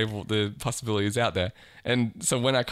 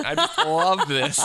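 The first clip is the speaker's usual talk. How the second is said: high, slow, gleeful squeal; delighted high squeal; slower than usual. Pretend. Pretending to be at silent club.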